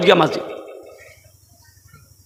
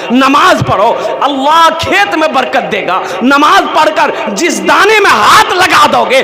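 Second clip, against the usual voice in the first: louder rising exhortation, hammering नमाज पढ़ो; full-force preaching; 4 dB louder than usual. Acted. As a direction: preach hard to the crowd, building. Preaches to the congregation. (ज़ोरदार तक़रीर)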